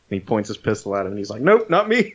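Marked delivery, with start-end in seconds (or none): 1.4-2.1 mock scared squeak. Retelling Little Bill's scared reaction.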